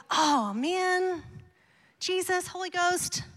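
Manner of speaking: mock flustered God. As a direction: play God suddenly rattled by the giants. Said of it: "God did not ... and go".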